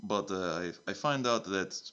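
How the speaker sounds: lightly put-on Russian accent, broken English; a hint of Russian accent, dropping the articles; a mild mock Russian accent. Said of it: "it's a Russian accent now".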